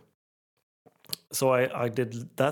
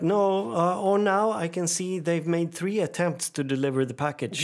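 agent's voice; 6 semitones higher than usual. Retold or imitated. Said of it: "she was like".

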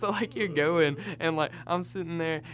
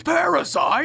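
mock surprise; 12 semitones higher, 9 dB louder, slower than usual. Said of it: "And he goes".

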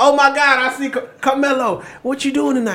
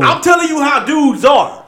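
insisting; 6 semitones higher than usual. Real, not acted. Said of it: "insisting to co-hosts".

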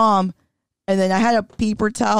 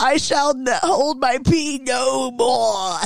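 mock heroic vow; 7 semitones higher than usual. Playing the girl vowing defiance, hammed-up heroic shout. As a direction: swear it like a movie heroine. Scarlett O'Hara style vow.

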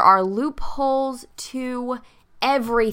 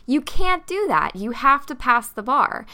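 insistent refusal; 3 semitones higher, 4 dB louder than usual. Retold or imitated. Lawyer refuses in acted exchange.

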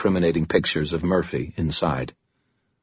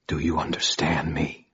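whispered; 5 dB quieter than usual. Acted. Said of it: "I whispered".

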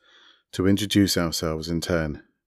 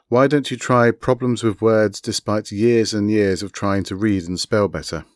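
louder mild growl; a touch of a growl, pushing back; 3 semitones higher, 5 dB louder than usual. Acted. Raw retorting to Indigo about dyslexia, a mild growl. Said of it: "Raw growled".

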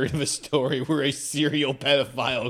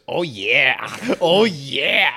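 loud, high whiny imitation; 4 semitones higher, 10 dB louder, much slower than usual. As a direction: whine it like a gamer. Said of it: "he sounds so whiny".

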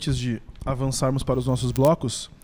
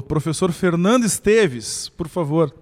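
announcer introduction; 6 dB louder than usual. Real, not acted. Host announces guest.

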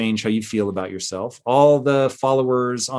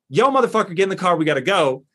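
mock pushy hurry; 5 semitones higher, faster than usual. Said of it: "So all we're saying is".

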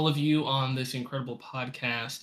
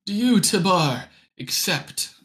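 lightly raised solemn elder; tribe leader; 5 semitones higher, 4 dB louder than usual. Acted. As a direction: ask it like a ritual vow. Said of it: "the tribe leader speaking to you".

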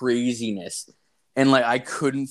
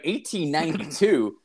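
eighteen ninety-two repeated with raised pitch, incredulous; disbelieving echo; 3 semitones higher than usual. Retold or imitated. Storyteller repeating the painter's date back, incredulous. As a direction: echo it back like you can't believe it.

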